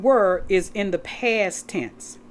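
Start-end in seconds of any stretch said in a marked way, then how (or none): 0.0-0.4 "were" said alone and a little louder; "were" isolated, pressed, falling; stressed word. Shown as a demonstration. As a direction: point at "were" with a firm fall. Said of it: "The word".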